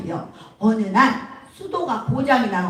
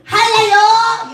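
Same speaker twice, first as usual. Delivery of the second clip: high, loud, drawn-out Jeolla call; Jeolla dialect; 9 semitones higher, 6 dB louder, much slower than usual. Acted. Repairman on phone, long loud Jeolla accent. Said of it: "이제 전라도 말이야".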